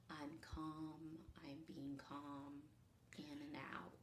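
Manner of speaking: soft, slow calming mantra; calm self-talk. Retold or imitated. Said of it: "rather than a".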